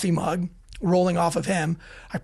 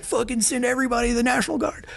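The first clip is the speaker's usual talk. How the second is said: frantic radio call; 6 semitones higher, faster than usual. Retold or imitated. Re-enacts panicked radio call.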